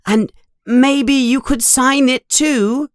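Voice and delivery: high-pitched, gushing little fan; Colin Creevey, very excited. A narrator's reading. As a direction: pour it out excitedly to your hero. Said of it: "Colin is talking very excitedly".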